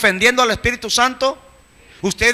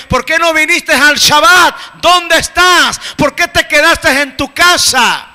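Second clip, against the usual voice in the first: higher, loud call of God searching; 5 semitones higher, 4 dB louder than usual. Retold or imitated. God calling the hiding believer, loud searching call. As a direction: shout it out as if searching for someone hidden. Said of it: "te dice Yahweh".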